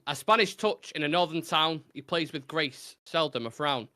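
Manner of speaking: measured, rhythmic verse recital; slam poetry. Acted. Host repeating the clue to stuck guessers, slam-poetry recital. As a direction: recite it line by line like a poet.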